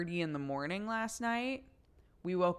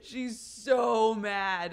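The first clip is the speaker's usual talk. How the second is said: laughing; 5 semitones higher, 9 dB louder, much slower than usual. Real, not acted. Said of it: "laughing retelling".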